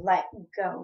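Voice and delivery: retold firm order to release the arm; firm demand. Niece to aunt grabbing her arm, firm demand.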